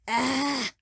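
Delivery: high, drawn-out "ah" of pain; pained growling cry. A narrator's reading. Man waking with pounding head, pained cry. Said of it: "Lamech growled".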